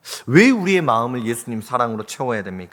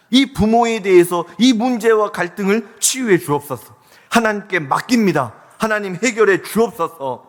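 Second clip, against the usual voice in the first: higher-pitched, earnest petition; fervent prayer; 6 semitones higher, 3 dB louder than usual. Acted. Preacher asking God to heal family strife, fervent pleading.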